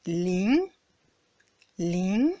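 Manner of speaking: "Ling" clipped short and rising; a brief upward flick on "Ling"; second tone "Ling", quick rise. Shown as a demonstration. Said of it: "Ça fait ling".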